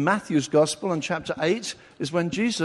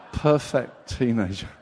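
laughing; 5 semitones lower than usual. Real, not acted. Preacher laughs at his own joke.

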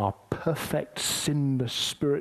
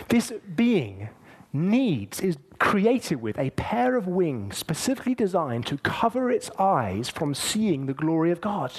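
real emotion rising, pitched higher; getting emotional; 5 semitones higher, 3 dB louder than usual. Real, not acted. Preacher awed by the seraphim's covered eyes, emotional. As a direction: push on through welling tears. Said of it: "I don't know why I'm getting emotional".

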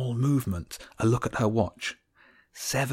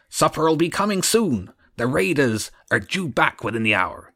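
higher, louder eager servant; Groat the guard; 6 semitones higher, 5 dB louder than usual. A narrator's reading. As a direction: reassure the boss nervously. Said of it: "Groat was the voice on patrol".

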